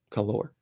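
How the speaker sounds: "Color" as "co-LOR", stress moved to the end; fancy pronunciation. Shown as a demonstration. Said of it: "fancy, way of spelling color".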